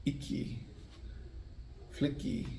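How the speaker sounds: icky, flicky whispered softly. Shown as a demonstration. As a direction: breathe the rhymes quietly. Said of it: "It's like you're saying".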